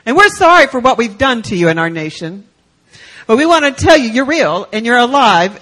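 retold official speech, firm and emphatic; impassioned proclamation. Government official telling villagers they are citizens, impassioned proclamation. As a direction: declare it to a whole crowd with conviction.

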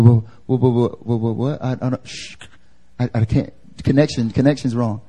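stuttering, broken-up bad-connection act; feigned incomprehension. Peter dodging the servant girl, faking a bad connection. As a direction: sputter and cut out, pretending you can't hear. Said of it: "acts like he doesn't even understand what she's saying".

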